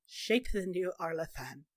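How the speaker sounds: low, soft repeat; subdued, low-voiced disbelief; quiet echo. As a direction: say it back softly, taking it in. Echoes an offer after long silence.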